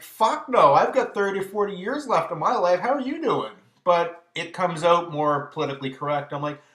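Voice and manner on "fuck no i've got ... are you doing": sarcastic inner voice. Retold or imitated. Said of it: "in my brain, I'm like".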